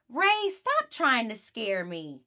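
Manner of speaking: put-on girl telling her brother to quit scaring her; scolding. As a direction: drag it out to tell him off.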